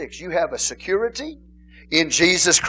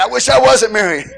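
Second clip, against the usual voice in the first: mock groaning complaint; 7 semitones higher, 10 dB louder than usual. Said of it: "then they get married".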